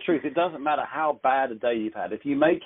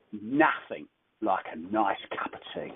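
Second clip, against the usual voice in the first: slow, lower, softer London accent; 4 semitones lower, 6 dB quieter, slower than usual. Shown as a demonstration. Showing how they'd say it further south, London accent. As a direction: draw out "Nothing like a nice cup of tea" in a London accent. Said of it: "But from London".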